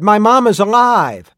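high, ringing shout, held out; joyful shout. A narrator's reading. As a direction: cry out loudly as an overjoyed boy. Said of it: "Tim shouted".

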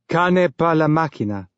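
exaggerated tough-guy bravado; bluff macho voice. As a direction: puff it up like a swaggering brute. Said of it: "Exaggerated bluff masculinity".

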